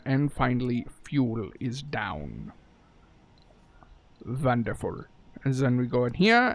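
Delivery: drawn-out mock German accent; slow, clumsy American take on a German accent; bad German accent. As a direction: put on a half-hearted German accent. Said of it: "shitty American version of a German accent".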